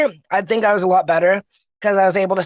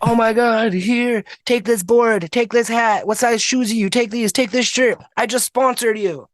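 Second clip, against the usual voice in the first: mildly raised, eager string of offers; amazed enthusiasm; 4 semitones higher than usual. Retold or imitated. Booth guy handing gear to the blind skater, amazed and eager. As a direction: imitate an amazed sponsor piling on gifts.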